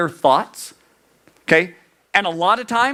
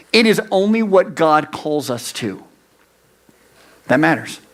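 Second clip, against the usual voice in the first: normal talking voice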